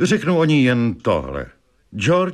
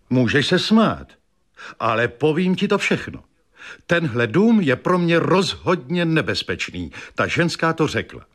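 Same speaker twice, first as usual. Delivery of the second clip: nervous invalid wife, pitched higher; wife's voice; 7 semitones higher than usual. A narrator's reading. Invalid wife telling George about the house, higher voice. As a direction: lift the voice for the fretful wife.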